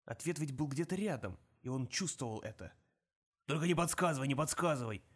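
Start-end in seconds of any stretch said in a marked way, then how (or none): 3.5-5.0 excited, pleading; don't you tell me; eager exclaim. Acted. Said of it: "воскликнул он".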